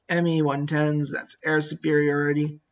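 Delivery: flat robotic monotone; robot-like, even delivery. Real, not acted. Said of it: "I sound like a robot".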